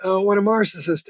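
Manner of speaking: mock the man saying "marcissist"; mispronouncing narcissist. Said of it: "He said".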